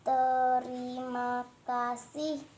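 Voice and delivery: over enunciating. Shown as a demonstration. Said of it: "mengulang apa yang tadi kakak sudah ucapkan".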